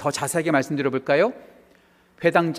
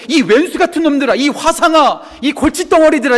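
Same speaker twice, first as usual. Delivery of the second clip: loud, high-pitched telling-off; mock scolding; 10 semitones higher, 9 dB louder than usual. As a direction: scold them like exasperated troublemakers' elder. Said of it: "이렇게 말하지 않고". (야단치듯 높고 크게)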